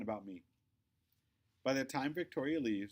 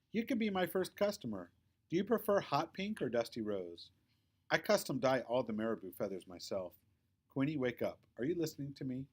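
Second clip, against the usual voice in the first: a hint of a know-it-all friend selling hard; Victoria's voice; 2 semitones higher than usual. Victoria pitching purses to Quinny, lightly voiced bossy girl.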